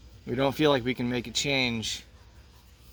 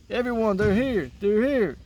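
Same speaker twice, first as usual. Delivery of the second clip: higher, eager calling out; excited announcement; 7 semitones higher than usual. Acted. Freddy telling the crowd the van has arrived, eager call. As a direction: call everyone over, thrilled.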